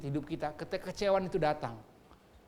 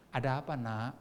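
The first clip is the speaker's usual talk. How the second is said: soft, lower, gently concerned voice; tender father; 4 semitones lower, 6 dB quieter than usual. Acted. God answering his crying child, softly tender. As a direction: ask gently, as a loving parent. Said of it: "Kalau bisa denger dibilang gini".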